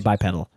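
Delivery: "bipedal" with a short E, like "pedal"; "bipedal" rhyming with medal; short-E pronunciation. Shown as a demonstration. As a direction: say "bipedal" as bye-PED-ul. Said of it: "he would say bipedal".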